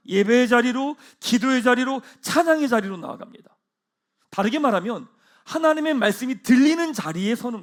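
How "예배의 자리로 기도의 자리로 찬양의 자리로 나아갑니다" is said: loud ringing call to worship; louder rousing preacher call; preaching call. Acted. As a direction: proclaim it to the congregation.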